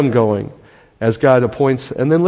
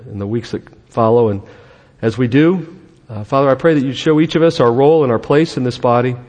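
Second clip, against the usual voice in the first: public prayer; 3 semitones lower than usual. Real, not acted. Pastor praying for a new church community, prayerful. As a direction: pray aloud for the gathering.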